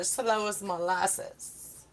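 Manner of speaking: dragged slow like molasses; slow drawl. Shown as a demonstration. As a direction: stretch every word slowly.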